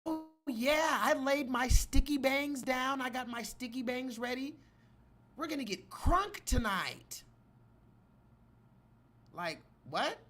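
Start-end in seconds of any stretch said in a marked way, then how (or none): 0.0-7.2 put-on high, loud airheaded party girl voice; mock her breezy excitement; mocking white woman. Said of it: "Imagine a white woman saying".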